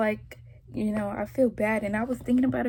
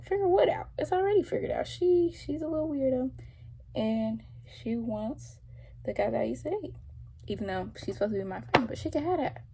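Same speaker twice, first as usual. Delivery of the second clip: retold heated retort; 4 semitones higher than usual.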